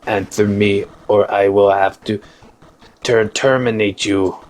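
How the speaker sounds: measured, stilted robot monotone; lightly voiced robot with a slow start; horrible robot voice. Robot overseer questions an unknown drone, horrible robot voice. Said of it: "That's a very horrible robot voice".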